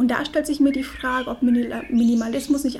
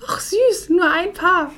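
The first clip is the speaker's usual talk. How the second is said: patronizing coo; 7 semitones higher, 6 dB louder, slower than usual. Retold or imitated. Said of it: "sie meinte nur".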